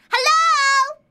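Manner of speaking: high, loud cheery hello; excited hello. Real, not acted. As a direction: sing out a bright greeting. Greeting guest on stream.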